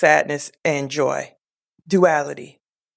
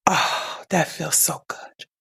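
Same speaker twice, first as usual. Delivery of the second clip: breathy, soft sigh of relief, hushed; relieved sigh; 5 dB quieter than usual. Retold or imitated. Mother sinks into soft bed, softly sighing relief. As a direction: gently mimic a dying mother's contentment. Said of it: "and she went".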